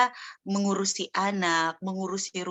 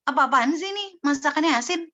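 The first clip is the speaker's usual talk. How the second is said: higher-pitched, indignant scolding; acted angry complaint; 6 semitones higher than usual. Husband berates wife over salty cooking, mock angry. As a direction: play an outraged husband griping. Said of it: "atau suami kita langsung banting piring?".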